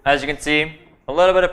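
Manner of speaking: talking with a mouth full. Real, not acted. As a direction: speak through a mouthful of food. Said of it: "excuse me for talking with my mouth full".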